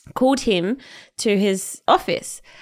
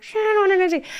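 mock panic; 12 semitones higher, much faster than usual. Player forced onto the pitch.

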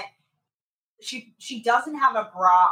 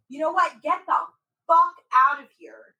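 imitated forceful outburst, pitched up; from the chest; 5 semitones higher, 3 dB louder than usual. Man ordering a woman out, retold full-chested. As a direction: throw it out from the chest, retelling his anger. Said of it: "he said it with his fucking chest".

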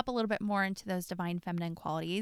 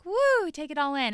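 mock overwhelmed; 7 semitones higher, 8 dB louder than usual. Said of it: "You're like".

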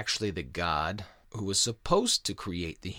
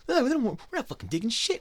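much higher, louder whiny complaining god; hammed-up bro boss griping about lazy workers; Enlil's whiny boss voice; 9 semitones higher, 9 dB louder than usual. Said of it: "He goes".

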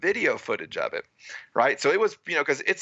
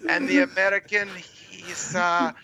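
higher, mock-gushing commentator; gushing announcer; 5 semitones higher than usual. Mocking the TV commentary of his race, a higher gushing announcer. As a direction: lightly ham up a broadcaster raving over the star. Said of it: "So the announcer's like".

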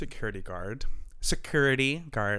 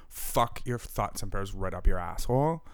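normal talking voice

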